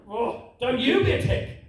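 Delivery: YOU pushed high and drawn out; stress on YOU. Acted. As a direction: throw it back, leaning hard on "you". Dad throws son's words back.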